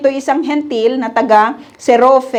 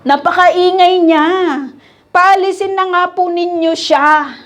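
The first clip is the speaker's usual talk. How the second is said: annoyed disciples; 5 semitones higher than usual. Retold or imitated. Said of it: "Ano sabi nila ito?".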